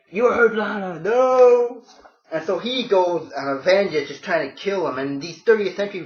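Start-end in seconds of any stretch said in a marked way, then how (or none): 0.1-1.8 high mock-heroic yell at full volume; a shouted cry of grief and rage; Superman yelling. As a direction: belt it out as the raging hero. Superman's berserk outburst voiced.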